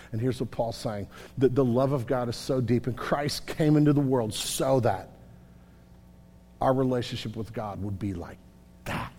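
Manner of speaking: low, soft, reverent preaching; hushed tenderness. Real, not acted. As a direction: bring it right down, tender and intimate.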